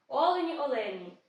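Олені, олені stressed on the opening О; stress on first syllable. Shown as a demonstration. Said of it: "наголос на першому складі". (наголос на першому складі: «Олені, олені»)

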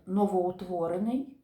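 "новоутворений" as one word, stress landing on "утворений"; stress on second part. Shown as a demonstration. Teacher showing pupils where stress falls, "новоутворений" stressed on "утворений". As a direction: lean on the "утворений" half of "новоутворений". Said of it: "логічний наголос падає на другу частинку".

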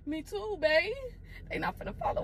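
whispered, barely there; scared whisper. Real, not acted. Wife whispering to husband in the car, scared. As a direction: hush it out, frightened someone will hear.

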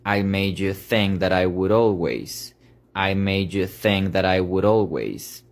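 "I made you think that I would always" all linked with taps; slow linked phrase. Shown as a demonstration. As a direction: flow it as one. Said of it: "Entonces nos quedaría".

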